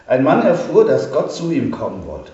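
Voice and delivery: lively story narration to a congregation; storyteller voice; story reading. A narrator's reading. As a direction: read it like a parable to the church.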